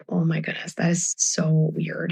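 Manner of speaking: breathy faked wonder, slow; hushed play-acting astonishment for the kids; mock amazed whisper. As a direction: whisper it like you can't believe it. Faking surprise on the floor.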